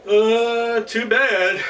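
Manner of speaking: high, loud mocking; mock pity. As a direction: taunt the trapped goblin. Herschel mocks the trapped goblin.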